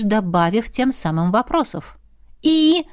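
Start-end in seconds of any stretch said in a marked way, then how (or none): 2.4-2.8 high, louder impatient "И?"; impatient exclaim. Acted. Kristina pressing the program for answers, impatient. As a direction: demand the answer right now. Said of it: "воскликнула в нетерпении".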